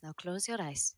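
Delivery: soft, hushed guided breathing; soft spa whisper. Acted. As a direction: lull them into calm breathing. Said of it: "puts a hand on each of your foreheads and says".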